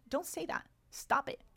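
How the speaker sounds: high-pitched playful telling-off; mock scolding. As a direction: cut in with a high, teasing reprimand. Scolds students for negative self-talk.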